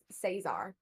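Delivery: Cesar as say-ZAR, with a z; Americanized Cesar, z in the middle; cast members' pronunciation. Retold or imitated. Co-host showing how cast say it, Cesar pronounced say-ZAR. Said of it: "hear the cast members say it".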